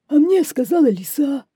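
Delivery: high, loud wolf voice; wolf's answer. A narrator's reading. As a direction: pass the blame on as the wolf. (голос волка, высоко и громко)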